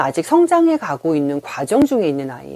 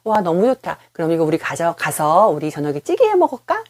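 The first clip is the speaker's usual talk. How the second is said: much higher, brighter cheerful praise; delighted mother; 6 semitones higher than usual. Retold or imitated. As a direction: gush like a pleased mom over her child's gifts. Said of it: "엄마가 이렇게 막 웃으면서". (신나서 칭찬하는 엄마 흉내)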